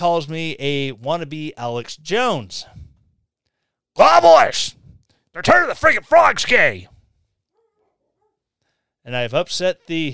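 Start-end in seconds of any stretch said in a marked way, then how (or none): 4.0-6.9 very loud, high yell swinging wildly up and down. Mocking a critic's comparison with a little Alex Jones impersonation. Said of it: "my little, uh, Alex Jones impersonation".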